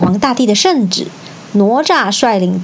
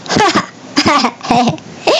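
slow mocking laughter, higher; crowd laughter; 6 semitones higher, slower than usual. A narrator's reading. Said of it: "众人听了哄堂大笑".

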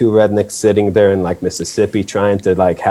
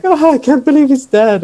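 much higher, hammed-up tearful wail; mock grieving lady; 4 dB louder than usual. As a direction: imitate a crying woman, overdone. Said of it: "she's like".

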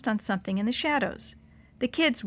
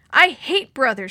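sobbing; 4 semitones higher, 8 dB louder than usual. A narrator's reading. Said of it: "she sobbed".

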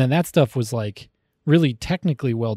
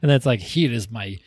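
lightly voiced heavy Russian accent; mock Russian man bragging in broken English. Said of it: "Or just like".

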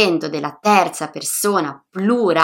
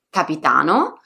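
capitano stressed on the first syllable, CA-pi-ta-no; stress four from the end; 3 semitones lower than usual. Shown as a demonstration. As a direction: put the weight on CA in capitano. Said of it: "sulla quartultima".

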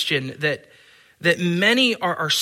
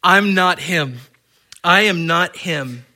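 firm, louder repeated denial; emphatic denial; 6 dB louder than usual. Shown as a demonstration. Preacher voicing John's emphatic denial, louder. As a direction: land each "not him" hard. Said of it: "to show how emphatic John the Baptist".

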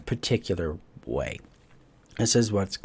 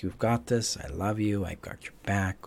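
loving inner parent; 4 dB quieter than usual. Retold or imitated. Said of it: "this programmed voice is like".

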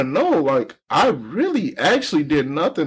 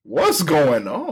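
mock echo; slower than usual. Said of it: "And I was like".

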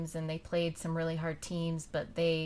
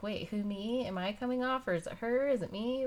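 higher-pitched, questioning imitation; mock bewilderment, each question lifting up; confused player; 4 semitones higher than usual. Player unsure whose name was yelled, confused.

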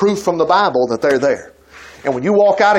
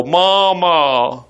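talking dog. Retold or imitated. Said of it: "It'll go".

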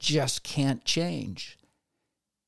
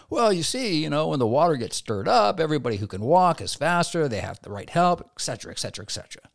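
excuse-making; 2 semitones higher than usual. Retold or imitated. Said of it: "a bunch of excuses".

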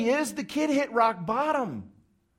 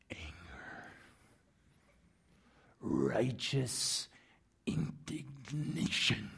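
much lower, much softer breathy whisper; hushed expectant whisper; 10 semitones lower, 12 dB quieter, much slower than usual. Acted. Preacher mouthing what the crowd expects the father to feel, whispered. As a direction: let the word hang like a secret.

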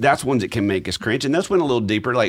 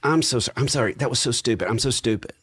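daughter apologizing; 5 semitones higher, faster than usual. Retold or imitated. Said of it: "She'll say things like".

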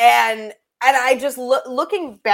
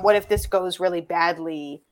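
lower, understated retold worry; worried mindset; 3 semitones lower, 3 dB quieter than usual. Guest recalls her old fearful mindset, mildly worried. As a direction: quietly voice a doubtful thought. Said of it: "changing my mindset of".

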